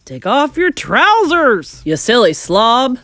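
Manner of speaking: slow, loud exasperated holler; drawn-out, scornful shout. A narrator's reading. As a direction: yell advice at a fool. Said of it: "someone else shouted".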